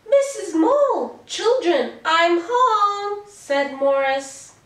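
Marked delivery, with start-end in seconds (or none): 0.1-3.2 high, excited call to the family. Acted. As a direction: announce your homecoming in a raised, lifted voice. Arriving home, calls to family.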